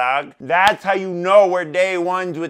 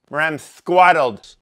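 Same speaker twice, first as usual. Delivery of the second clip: drawn-out catchphrase; 8 dB louder, slower than usual. Acted. Slow loud catchphrase.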